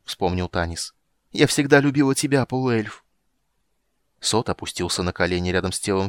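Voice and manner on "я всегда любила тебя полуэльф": higher, louder tender woman's voice; loving woman's voice. A narrator's reading. Kitiara's remembered voice.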